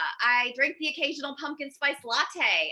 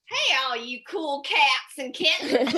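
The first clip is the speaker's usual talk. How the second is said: lightly voiced big-cat lady greeting; drawn-out, mock-cheery hello; Carole Baskin. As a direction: imitate a slow, sing-out video greeting. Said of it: "I'm rocking the Carole Baskin".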